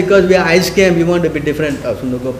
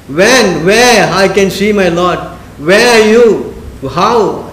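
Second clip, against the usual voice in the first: crying prayer; slower than usual. Retold or imitated. Madhavendra Puri, praying for his Lord, in a mild tearful cry. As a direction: plead for the Lord like a weeping saint, understated. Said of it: "He's crying".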